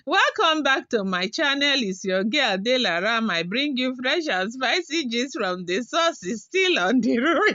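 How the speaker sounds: brisker, bouncy channel greeting, laughing at the end; quick cheerful intro with a giggle. Shown as a demonstration. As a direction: rattle off the intro at normal speed. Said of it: "Do you people like it?".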